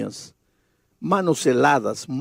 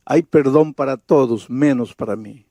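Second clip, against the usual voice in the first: tearful; 2 semitones lower than usual. Retold or imitated. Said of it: "ella llorando me dice".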